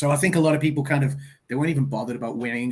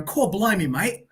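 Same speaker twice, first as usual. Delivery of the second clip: mock Londoner; 5 semitones higher, slower than usual. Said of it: "portray me as a Londoner going".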